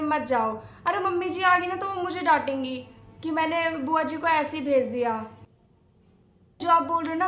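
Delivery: urgent, placating appeal; anxious pleading. Acted. Bahu begs offended aunt to stay, anxious pleading. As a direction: plead with her to calm down.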